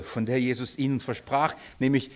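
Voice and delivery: normal talking voice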